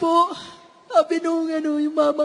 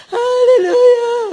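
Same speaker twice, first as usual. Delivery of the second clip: high praise shout; 7 semitones higher, 7 dB louder, slower than usual. Real, not acted. Praise exclamation.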